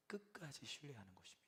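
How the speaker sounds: 끝까지 신뢰하는 것입니다 whispered, unvoiced and soft; hushed whisper. Real, not acted. Preacher hushing the congregation on trusting God, whispered. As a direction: drop to a hushed whisper on the key truth.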